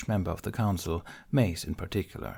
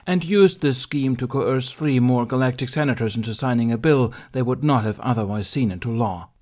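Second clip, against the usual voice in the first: a stern council master, formal and pressing; stern Mace Windu; 4 semitones higher, 5 dB louder than usual. Acted. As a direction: read out the charges like a cold judge.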